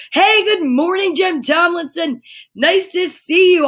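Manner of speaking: lifted, cheery hello to a viewer; bright greeting. Real, not acted.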